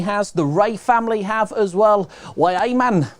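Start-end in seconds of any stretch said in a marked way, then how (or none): 2.3-3.1 a light, hammed-up northern English accent; a playful stab at a northern English voice. Host trying out a listener's northern accent, lightly done. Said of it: "Sorry, that's my best northern accent".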